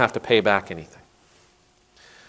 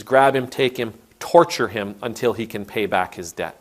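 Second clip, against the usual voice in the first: angry master; 3 semitones higher, 6 dB louder than usual. Retold or imitated. Angry master condemns servant.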